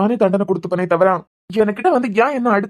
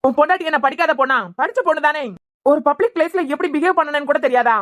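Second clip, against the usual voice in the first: raised, indignant reproach, higher throughout; angry scolding; 5 semitones higher than usual. Acted. Friend berating the husband for slapping her in public, angry high scolding. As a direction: scold him hard for hitting his wife.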